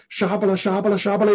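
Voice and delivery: lightly imitated babble; mock speaking in tongues. Shown as a demonstration. Preacher shows listeners that tongues are meaningless to them, mock babble. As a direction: reel off repeated nonsense syllables as a demonstration. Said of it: "你听着我说的是什么意思呢".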